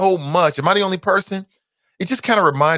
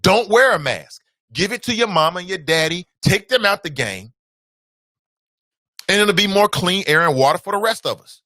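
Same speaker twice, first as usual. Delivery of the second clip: mock callous advice; 4 semitones higher than usual. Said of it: "I said the same thing he said on the show".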